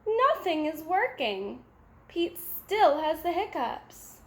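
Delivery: ordinary delivery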